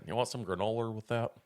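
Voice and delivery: light Long Island deli-counter voice; a hint of Long Island, offering food; Long Island accent. Shown as a demonstration. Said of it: "that's my Long Island accent".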